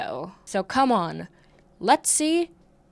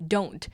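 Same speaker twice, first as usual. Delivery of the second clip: P=A; firm don't; 4 semitones lower than usual. Shown as a demonstration. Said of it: "If you are a child watching".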